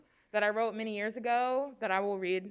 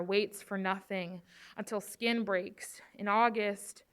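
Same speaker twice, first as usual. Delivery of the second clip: spoken word poem. Acted. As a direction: lean into each image as you recite. Recites second poem.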